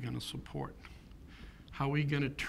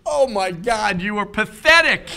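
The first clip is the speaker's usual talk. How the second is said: a high, loud quote broken up by laughter; laughing wife; 11 semitones higher, 11 dB louder than usual. Retold or imitated. Wife teasing him for crying over football, laughing loud and high. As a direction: laugh through the wife's teasing.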